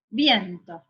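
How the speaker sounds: VIENTO said whole, leaning on vien; stress on first syllable. Shown as a demonstration. Teacher testing a word's stress, VIENTO stressed on vien. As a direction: let the weight fall on the VIEN of VIENTO. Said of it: "La sílaba tónica es bien".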